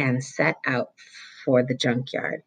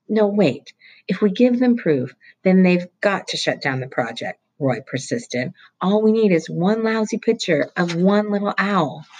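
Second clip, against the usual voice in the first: fast, higher, eager explanation; excited boy; 5 semitones higher than usual. Acted. Roy explaining the owl law to Mullet Fingers, excitedly. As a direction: rattle it off to convince.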